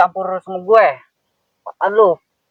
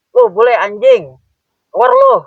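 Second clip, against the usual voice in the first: thug yelling; 2 semitones higher, 3 dB louder than usual. Acted. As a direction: bark him out of the house. Preman yelling at foreigner. (teriakan preman marah)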